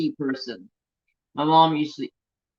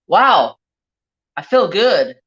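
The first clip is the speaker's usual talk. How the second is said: loud, higher, amazed wow; husband's delight; 6 semitones higher, 10 dB louder, slower than usual. Retold or imitated. Husband amazed the honey worked, loud and delighted. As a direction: retell his surprise at suddenly feeling good.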